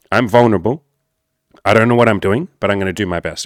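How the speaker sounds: steady, grounded, owning the words; calm masculine admission. Shown as a demonstration. Coach showing men the right way, steady and grounded. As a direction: admit it calmly like you have a plan. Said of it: "be vulnerable in a very masculine way".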